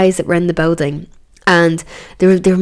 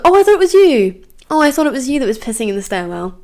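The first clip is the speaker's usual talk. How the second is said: high, snooty mimicry of the accuser; hammed-up sneering impression; mocking neighbour; 6 semitones higher than usual. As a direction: whine it like a prissy neighbour.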